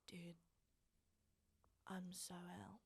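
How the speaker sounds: put-on hushed, breathy whisper of a queasy girl; retold whisper. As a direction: whisper it like you're about to be sick. Drunk, telling boyfriend she's ill.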